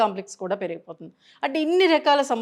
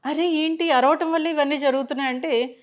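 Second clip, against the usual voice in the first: higher, retold gasp of disbelief; stunned disbelief; 6 semitones higher than usual. Counselor recalling her shock at what the shouting caused, surprised. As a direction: replay the moment it hit you, amazed.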